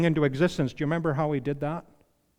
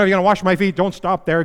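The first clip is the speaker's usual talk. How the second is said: higher and louder, eager pleading; eager Peter; 3 semitones higher, 7 dB louder, faster than usual. Retold or imitated. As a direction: overeager Peter asking for more. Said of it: "Remember Peter's response?".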